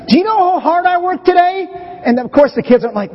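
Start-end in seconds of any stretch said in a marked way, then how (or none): 0.1-1.7 high, whiny plea for sympathy; self-pitying complaint. Retold or imitated. Dad to his kids about his hard day, whining high. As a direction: play the put-upon dad demanding credit. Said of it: "right there, the little man".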